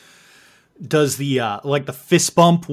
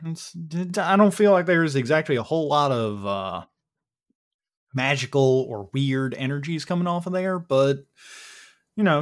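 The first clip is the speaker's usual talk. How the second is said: folksy Texan, lightly put on; casual Texas twang, halting with uh's; Dan, Texas accent. Dan gives the group the lowdown, light Texas accent. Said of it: "I'm doing my best yeehaw here".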